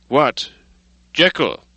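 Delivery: sudden high call of surprise; crying out. Acted. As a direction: call up to the window, startled. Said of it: "he cried".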